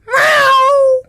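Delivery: cartoon cat yowl; yelled meow.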